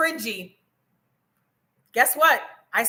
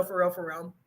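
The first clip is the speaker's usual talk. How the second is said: lowered voice after being told she's screaming; 7 semitones lower, 8 dB quieter than usual. Real, not acted. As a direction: drop it lower and much softer. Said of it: "Let me lower my voice".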